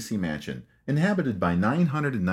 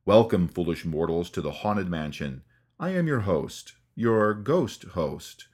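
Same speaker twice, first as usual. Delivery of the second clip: Paul Frees ghost host; slower than usual. Retold or imitated. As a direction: draw out each word like a haunting host. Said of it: "the chilling voice of Paul Frees".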